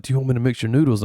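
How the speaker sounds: fast, rushed retold question; frantic retelling. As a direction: imitate a waitress hurrying to ask. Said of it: "she frantically came over and was like".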